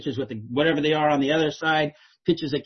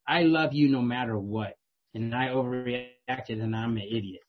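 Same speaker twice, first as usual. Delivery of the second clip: slow, lower, softening fatherly apology; tender apology; 4 semitones lower, 4 dB quieter, slower than usual. Retold or imitated. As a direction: speak gently and slowly, owning the mistake. Father apologizing tenderly to crying daughter.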